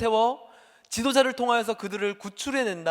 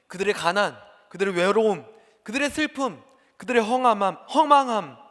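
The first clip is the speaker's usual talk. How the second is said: building sermon list; 5 dB louder than usual. Acted. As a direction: pile up each burden with force. Preaching list builds louder. (고통을 하나씩 쌓아 올리며 점점 크게)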